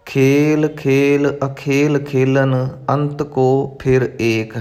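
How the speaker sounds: word-by-word careful verse reading; careful recitation. Shown as a demonstration. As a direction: recite with close attention to each word. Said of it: "ਬਹੁਤ ਧਿਆਨ ਦੇ ਨਾਲ".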